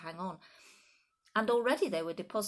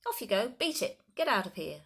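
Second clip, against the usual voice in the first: much higher, loud shooing shouts; shouting; 4 semitones higher, 6 dB louder than usual. A narrator's reading. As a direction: chase the birds off with your voice.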